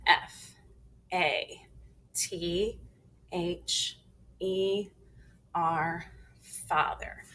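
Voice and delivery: firm letter-by-letter spelling, strong first letter; teacher's emphatic spelling drill; big and strong. Shown as a demonstration. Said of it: "big and strong".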